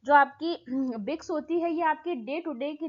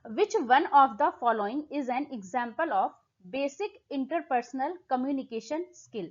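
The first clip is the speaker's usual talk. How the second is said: slow, deliberate exam-question read; much slower than usual. Acted. Teacher reading the question text slowly to students.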